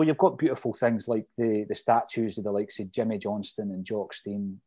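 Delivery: normal talking voice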